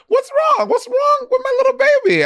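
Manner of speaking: put-on high-pitched fussing baby talk; mock cooing concern. Retelling how co-host comforted the speaker, mock cooing concern. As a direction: imitate someone fawning over a baby, very high. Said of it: "you were literally like".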